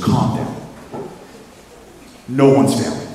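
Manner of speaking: measured, unhurried reassurance; acted calming officer. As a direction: settle down an angry trainee. Officer calms the furious trainee.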